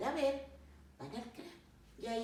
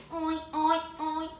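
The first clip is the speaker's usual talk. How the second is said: high, loud oinks; pig oinking; 10 semitones higher, 10 dB louder, much slower than usual. Acted. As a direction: oink in short piglet bursts. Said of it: "Cerdita le también fue". (gruñidos agudos de cerdita)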